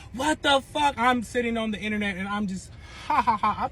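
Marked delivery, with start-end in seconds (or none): 0.1-1.0 mock outrage. Acts out ex's outraged reaction. 3.1-3.7 spoken-out mock laugh, a bit raised; acted laughter. Woman recalls laughing online at her ex's panic, acted laughter. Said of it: "I'm laughing".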